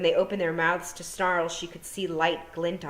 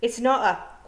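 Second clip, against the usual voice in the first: Feegle protest; 7 semitones higher, 6 dB louder than usual. A narrator's reading. Feegle cut off mid-protest.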